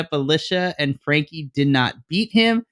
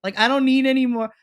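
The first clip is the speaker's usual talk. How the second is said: high-pitched, fed-up refusal; shutting the whole feud down; fed-up protest; 8 semitones higher than usual. Retold or imitated. Telling the writers she's done with the feud, fed up and high. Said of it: "And I'm like".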